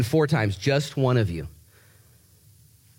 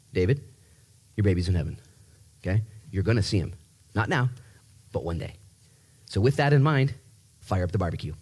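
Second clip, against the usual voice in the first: tender God voice; 5 semitones lower than usual. Acted. God voiced speaking to David.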